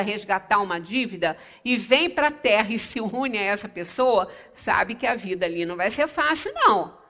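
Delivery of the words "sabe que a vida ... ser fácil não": ordinary delivery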